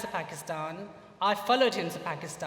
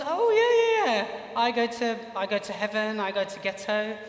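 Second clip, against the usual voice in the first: put-on American accent; 3 semitones higher than usual. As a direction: play him casually, in a light American accent. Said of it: "he spoke a bit with an American accent".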